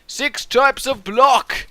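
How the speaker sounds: slow, drawn-out host voice; slow rule announcement. Acted. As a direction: spell out the rule grandly.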